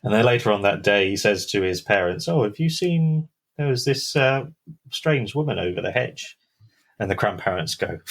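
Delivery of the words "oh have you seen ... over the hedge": put-on high-pitched, eager little boy; a young boy blurting out what he saw; excited child. Little grandson telling his parents, higher and eager.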